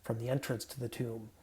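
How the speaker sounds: measured, solemn reading of the Gospel; scripture reading. Acted. Pastor reading scripture to the congregation, solemn. Reads Gospel passage aloud.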